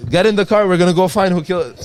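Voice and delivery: loud, high, worked-up order; rally him in hammed-up fury; mock outrage. Retelling dad's feigned outrage.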